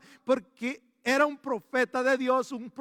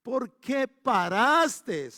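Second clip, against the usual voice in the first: very slow, louder rebuke drawn out; angry prophet; 2 semitones higher, 5 dB louder, much slower than usual. Retold or imitated. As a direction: scold the king for stopping, slowly. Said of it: "el profeta se enojó".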